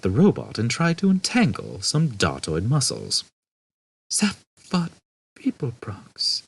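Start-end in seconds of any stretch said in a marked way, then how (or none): 4.1-6.4 breathy whispered name, fading; weakly. Acted. Ford stunned by the name, weak whisper. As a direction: barely get the name out in shock. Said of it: "he said weakly".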